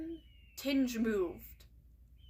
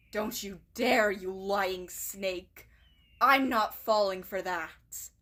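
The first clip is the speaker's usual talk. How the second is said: louder, slow on lying snake; angry outburst; 3 semitones lower, 4 dB louder than usual. Acted. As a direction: snap at her, not buying it. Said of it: "Blue Eye blurts out".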